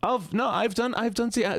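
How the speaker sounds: high alarmed squeal; high surprised. Real, not acted. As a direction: yelp it in mock alarm.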